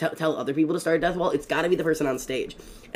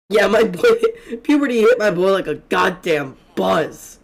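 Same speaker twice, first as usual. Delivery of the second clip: laughing; 4 semitones higher, 6 dB louder than usual. Real, not acted. Laughing at the grown villager.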